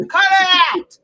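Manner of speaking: scolding dismissal. Real, not acted. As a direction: call it out like you're fed up. Scolding an absent opponent.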